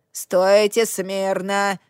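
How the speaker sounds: slow, hissed command; hissing. Acted. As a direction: hiss it out slowly. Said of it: "прошипела женщина".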